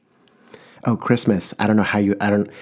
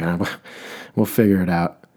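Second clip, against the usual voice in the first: weary sigh of a laugh, giving up; tired mock exasperation, amused; exasperated. Shown as a demonstration. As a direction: let the frustration leak out with a chuckle. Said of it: "you gotta say it kind of ex-, exasperated".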